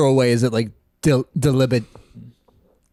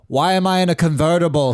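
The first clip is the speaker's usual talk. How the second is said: Kennedy impression; 4 semitones higher than usual. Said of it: "I was being J F K right there".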